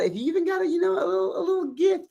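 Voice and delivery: small, high-pitched wheedling voice; high coaxing plea. Pretend. Coaxing viewers to send gifts.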